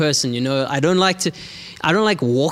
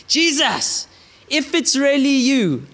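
Peter shouting back; 9 semitones higher than usual. Acted. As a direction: shout it out boldly like brash Peter. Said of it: "And Peter shouts back".

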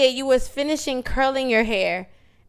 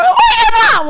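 very high, loud laughing scream; panicked yell; 8 dB louder than usual. Retold or imitated. Friend calling for mom after water breaks, high panicked scream. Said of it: "I'm freaking the fuck out".

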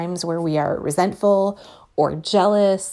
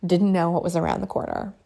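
mock scolding future self; 3 semitones higher than usual. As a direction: tease your younger self from a year on. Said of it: "be like".

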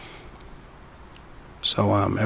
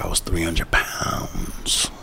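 hushed retelling; 4 dB quieter, much slower than usual. Retold or imitated. Retold girl's story, hushed.

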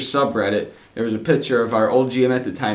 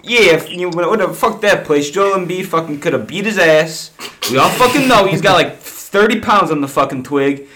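put-on Philly accent; 3 semitones higher than usual. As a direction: mouth off like a Philly fan. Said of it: "Is this supposed to be my Philly accent time?".

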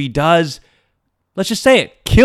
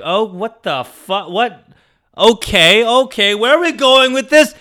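starts hushed, climbs high; acted-out wary bewilderment; uneasy disbelief; 6 semitones higher than usual. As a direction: grow more alarmed toward the question. Uneasy reaction to proposition.

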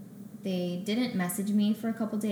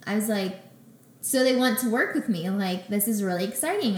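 excited; 3 semitones higher, 6 dB louder than usual. Retold or imitated. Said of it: "really ecstatic".

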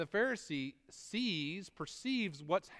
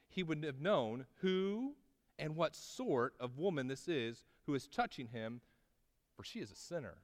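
Pharisee's inner voice. Retold or imitated. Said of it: "and says".

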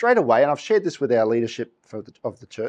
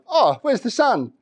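higher, slow, puzzled leaves wondering aloud; confused leaves; 8 semitones higher than usual. Pretend. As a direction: voice the lost leaves, high and slow. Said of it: "the leaves were down there going".

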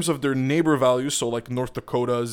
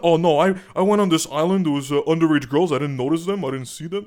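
mock excuse; 3 semitones higher, 4 dB louder than usual. Mocking predator's excuse.

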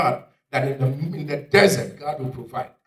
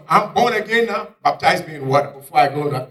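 excited convert; 3 semitones higher, 6 dB louder than usual. Acted. Acting the man jumping up.

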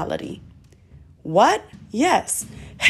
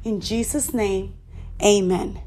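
led prayer. Acted. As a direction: lead them through it phrase by phrase. Leads the prayer, slow pauses.

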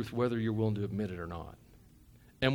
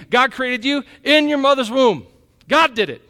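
excited preaching; 10 semitones higher, 9 dB louder than usual. Acted. First take before yell.

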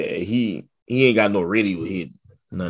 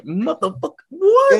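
high laughing outburst. Real, not acted. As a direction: crack up in disbelief. Friend cracking up.

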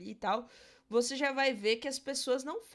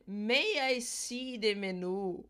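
polite British request; much slower than usual. Shown as a demonstration. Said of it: "eu vou falar".

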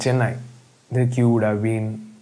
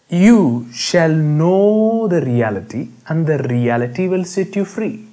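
full proclamation; 4 semitones higher than usual. Shown as a demonstration. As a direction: declare the whole verse boldly. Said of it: "preacher repeats verse in full".

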